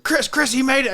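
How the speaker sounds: imitating a dad bursting with news; mock-excited father calling his wife. Imitating dad's excited whisper-shout to mom.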